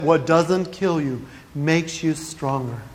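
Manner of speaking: low, slow, measured saying; slow fortune reading. Acted. Comic quotes a well-known fortune saying, slow and measured. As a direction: recite it slowly like a proverb.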